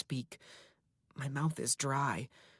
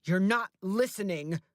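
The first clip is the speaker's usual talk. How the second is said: higher and louder shout; 6 semitones higher, 5 dB louder than usual. A narrator's reading. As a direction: shout him down. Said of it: "he shouts".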